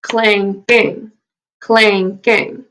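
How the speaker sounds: "clanking" split into two beats, CLANK-ING; syllable by syllable. Shown as a demonstration. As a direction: clap out each syllable of "clanking". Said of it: "gonna clap it and we're gonna count it".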